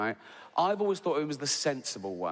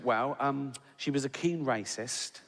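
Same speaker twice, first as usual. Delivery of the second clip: deadpan. Retold or imitated. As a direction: imitate Bob's straight-faced delivery. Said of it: "with a straight face".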